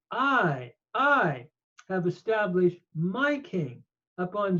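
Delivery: I punched, set apart with a pause; stress on I. Shown as a demonstration. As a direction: hit the word I hard, then go on. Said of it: "very emphatic here".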